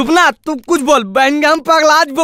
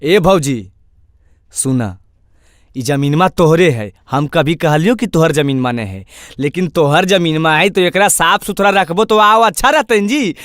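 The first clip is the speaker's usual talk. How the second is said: lower, conciliatory appeal; calm reasoning; 8 semitones lower than usual. Acted. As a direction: talk the sister-in-law round patiently. Reasoning gently with angry sister-in-law. (शांति से समझाते हुए)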